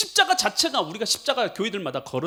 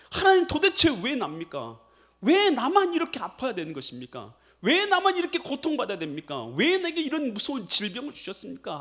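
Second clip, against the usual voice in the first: raised, pleading complaint to God; complaining prayer; 6 semitones higher than usual. Retold or imitated. Sick man grumbling before God, raised lament. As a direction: protest why me, voice lifted. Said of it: "하고 하나님 앞에 막 원망을 하는".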